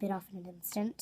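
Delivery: unvoiced whispered aside; whispering. Real, not acted. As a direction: breathe the words out, no voice. Aside while cleaning a nail.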